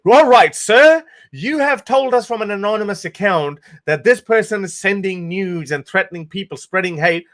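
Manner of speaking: high, loud, hammed-up officer springing into action; mock eager police officer. Vlogger imagining police obeying the troll, in a hammed-up high voice. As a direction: play a gung-ho cop calling in every agency. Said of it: "would be like".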